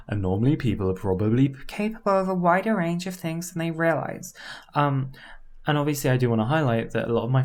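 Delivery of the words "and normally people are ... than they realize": shifted demo voice. Shown as a demonstration. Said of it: "like I've kind of demonstrated right now".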